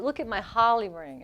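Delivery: imitated Boston "holly" for Harley, R dropped; Boston accent. Host imitating station manager showing her ring, Boston accent. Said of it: "this is how she says it".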